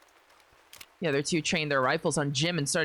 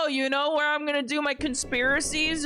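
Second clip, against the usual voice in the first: lightly voiced mock plotter, a bit higher; mock conspirator; 10 semitones higher, slower than usual. Mocking the game's characters, lightly voiced plotter. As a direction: tease them with a light conspiratorial voice. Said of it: "Why is everyone like".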